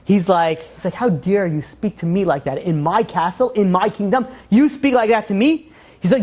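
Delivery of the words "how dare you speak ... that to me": indignant, rising outburst; acting out a king who just snapped. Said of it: "he's, he just snapped".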